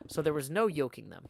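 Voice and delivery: measured audiobook-style reading; story narration. A narrator's reading. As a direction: narrate the tale with lively phrasing. Reads the novel aloud.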